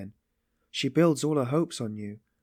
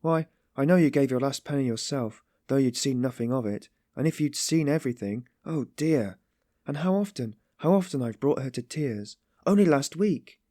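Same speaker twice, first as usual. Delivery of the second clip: high, wretched self-reproach; pained remembering; 6 semitones higher, 4 dB louder than usual. A narrator's reading. Sonia remembers bringing her to tears, wretched. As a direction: blame yourself, pained and agitated. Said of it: "at the pain of remembering it".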